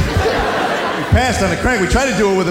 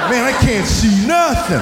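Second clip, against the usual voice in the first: mock blinded complaint; 4 semitones higher, slower than usual. Weight on forehead gag.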